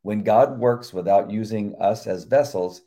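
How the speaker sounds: measured earnest sermon reading; devotional reading. Acted. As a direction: read it like a sermon. Reads devotional aloud.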